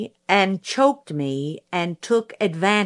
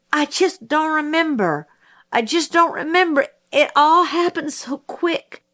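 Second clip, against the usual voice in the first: flustered; 9 semitones higher than usual. Acted. Mayella flustered on the stand.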